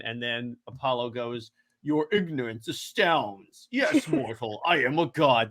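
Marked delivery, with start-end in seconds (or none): 1.8-4.6 lightly voiced pompous god; a hint of a haughty deity addressing a mortal. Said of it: "This is my god voice". 4.6-5.5 lightly voiced god; a hint of a mock-grand deity; Apollo. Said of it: "This is my god voice".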